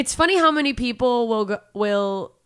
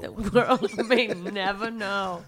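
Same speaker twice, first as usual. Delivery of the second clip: laughing echo; much slower than usual. Pretend. Repeats tagline laughing.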